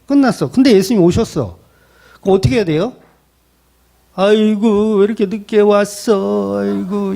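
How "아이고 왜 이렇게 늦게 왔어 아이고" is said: drawn-out, slow funeral wail; mock wailing mourner. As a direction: lament theatrically, with ridicule underneath. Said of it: "조롱하는 거예요".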